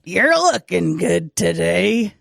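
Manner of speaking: slow ventriloquist line, lips frozen; talking with mouth closed. Shown as a demonstration. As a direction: say it slowly without moving your lips. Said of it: "you can say it without moving your mouth".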